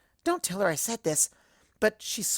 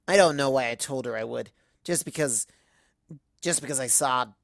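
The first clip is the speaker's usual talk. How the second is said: put-on drunk Twilight; 4 semitones lower than usual. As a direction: slur through it, hurt and pretending not to care. Drunk Twilight rambling about breakup.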